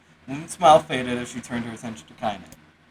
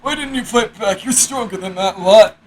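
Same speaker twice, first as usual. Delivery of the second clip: lightly voiced grandmother; old woman voice; 7 semitones higher, 6 dB louder than usual. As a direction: ask gently as an old granny. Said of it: "My voice changes every other sentence".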